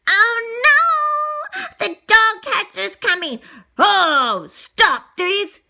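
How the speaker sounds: high loud oh no; high frightened warning; alarmed cry. Acted. Dog catcher approaches.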